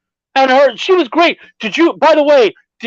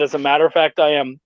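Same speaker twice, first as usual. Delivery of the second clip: mock formal reply; 10 semitones lower, 5 dB quieter, faster than usual. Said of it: "I said".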